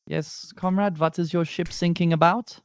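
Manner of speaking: high-pitched mock German radio operator; German accent. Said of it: "like, a German, like, two, two German boats".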